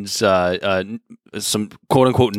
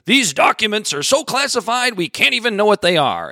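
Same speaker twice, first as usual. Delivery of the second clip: high, mildly hammed-up official claim; mock insistence; 8 semitones higher than usual. Mimicking what officials just keep saying, mock insistence. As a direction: parrot the excuse in a raised pitch.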